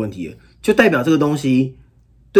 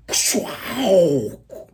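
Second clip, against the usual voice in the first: wing whoosh sound; 6 semitones higher than usual. Shown as a demonstration. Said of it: "你知道我有翅膀欸".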